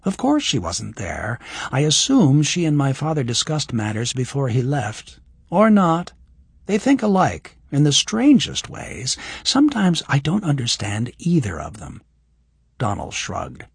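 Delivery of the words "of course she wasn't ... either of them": put-on higher young woman's voice; lightly voiced young woman; Kira's voice. Voices Kira.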